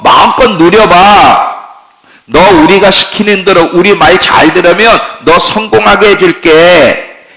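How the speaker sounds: preacher voices the world luring believers, coaxing. Acted. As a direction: sell the good life like a smooth tempter. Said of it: "세상이 우리에게 소리칩니다".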